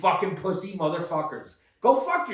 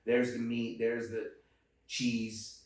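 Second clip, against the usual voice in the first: lower, softer bored listing; obnoxious; 4 semitones lower, 4 dB quieter than usual. Retold or imitated. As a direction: tick off the aisles with smug disdain. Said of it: "but I was obnoxious".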